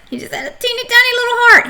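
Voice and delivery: very high, quick little voice; teeny-tiny voice. Shown as a demonstration. Teacher describing the Grinch's tiny heart, tiny high voice. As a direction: squeeze it small and squeaky for tininess.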